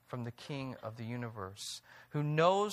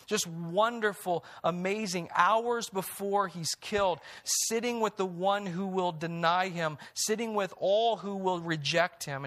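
slightly raised, marvelling preacher; wondering sermon lift; 4 semitones higher than usual. Acted. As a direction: let the wonder rise in the voice.

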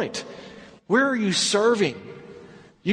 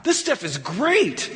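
amazed master of the feast; 3 semitones higher, slower than usual. Retold or imitated. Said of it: "He says".

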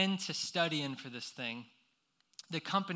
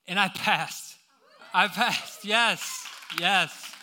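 triumphant yell; 5 dB louder, slower than usual. Retold or imitated. Relief at passing exam.

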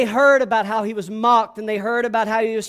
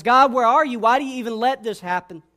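raised, pleading protest; crying out; 3 dB louder than usual. Acted. The psalmist crying out to God, raised protest. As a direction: cry it out as a demand for answers. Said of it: "the psalmist cries out to God".

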